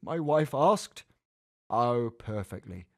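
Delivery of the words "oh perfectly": reassuring. A narrator's reading. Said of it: "the vet assured us".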